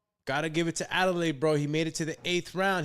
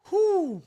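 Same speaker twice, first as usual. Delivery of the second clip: excited whew; 13 semitones higher, 5 dB louder than usual. Real, not acted. Relief after the round.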